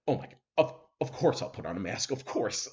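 flustered, stumbling imitation; mock-rattled, hurrying to comply. Man caught out over his mask, imitated as rattled. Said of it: "the guy got so rattled".

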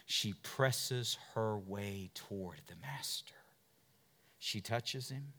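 hushed, slow whisper; a hushed, slow whisper of the woman's approach. Acted. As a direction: draw them in with a whisper. Preacher narrates woman's approach.

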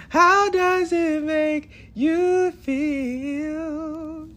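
playful giggly voice; giggly mock question. Real, not acted. Laughing at himself in the hotel room, giggly. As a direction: tease yourself through giggles.

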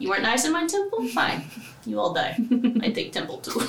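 quick, laughing gruff temple guardian; D and D character voice. Acted. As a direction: rattle off a blunt, broken-speech deity. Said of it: "So that's your character voice?".

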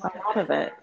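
echoey room sound; echoing bathroom. Real, not acted. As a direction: talk through a room echo. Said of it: "we got a little bit of echo there".

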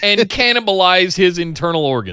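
laughing through the threat; chuckling mid-quote. Retold or imitated. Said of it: "mock promo quote".

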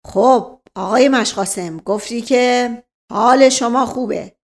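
loud, rapid-fire interrogator; bully him with questions; barking police officer. Acted. Officer grilling the old servant, harsh and loud.

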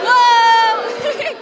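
high, loud spooky ghost wail. Shown as a demonstration. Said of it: "do your, like, coolest ghost voice".

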